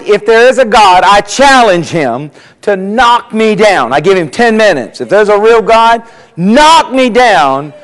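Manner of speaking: acted bold challenge; defiant challenge. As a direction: throw down a dare, drawing out the last words. Professor dares God before his class.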